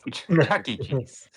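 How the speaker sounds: playful, lightly put-on creepy name-drop; 玩笑式怪腔. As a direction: say it oddly, with a laugh in it. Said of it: "Why are you saying it like that".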